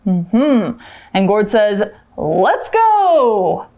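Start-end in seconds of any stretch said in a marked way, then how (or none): 2.2-3.6 acted eager cry; excited send-off. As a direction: call it out in playful excitement. Acting Gord setting off on adventure. (興奮地喊出發)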